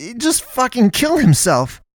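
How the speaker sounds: crying out at a very high pitch. Arriving at a roadside bar with Naomi and the pastress, Hunter cries out. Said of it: "And then he cried".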